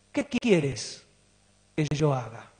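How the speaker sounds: Saul, shaken, surrenders to the Lord; trembling fear. Retold or imitated. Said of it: "y temeroso dijo".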